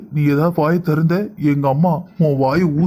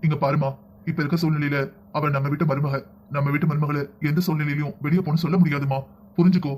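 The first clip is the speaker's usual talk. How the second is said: softer, gently firm elder explaining to daughter-in-law; calm reassurance; 6 dB quieter than usual. Acted. Father-in-law gently reasoning with upset daughter-in-law, soft and calm. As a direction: settle her down without raising the voice. Elder calmly settling family quarrel.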